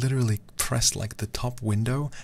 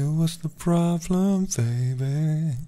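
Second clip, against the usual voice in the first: put-on higher, louder, slow "What's the problem, baby?"; mock loud baby call; 8 semitones higher, 6 dB louder, much slower than usual. Shown as a demonstration. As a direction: call out "baby" big and high in jest. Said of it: "So you hear me say".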